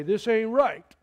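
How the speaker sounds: loud, high, hammed-up moaning about unfairness; whiny complaint. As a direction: whine it like a grumbler who feels cheated. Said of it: "Don't you say".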